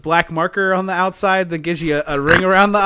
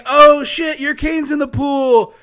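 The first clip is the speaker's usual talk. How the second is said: high mock alarmed girl; 7 semitones higher than usual. Mock sorority girl reaction.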